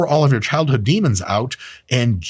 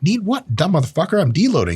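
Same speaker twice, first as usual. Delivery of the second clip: higher, mock-irritated comeback; mock annoyed retort; 6 semitones higher than usual. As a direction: snap back at the gym bro, half joking. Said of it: "And you're like".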